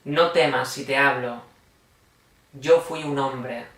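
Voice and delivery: measured, solemn poetry reading; unhurried verse reading in an even, restrained tone; poem recitation. Acted. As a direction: recite it line by line, with pauses between phrases. Reads poems aloud after introduction.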